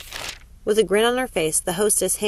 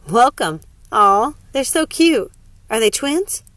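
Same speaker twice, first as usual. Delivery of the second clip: gushing hostess; 5 semitones higher, 6 dB louder, slower than usual. Acted. Hostess gushes over babies.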